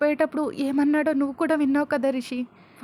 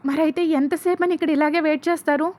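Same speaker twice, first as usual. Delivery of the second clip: raised, louder, demanding; angry shout; 4 semitones higher, 5 dB louder than usual. A narrator's reading. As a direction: yell at the police in frustration. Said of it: "అని మను అరుస్తాడు".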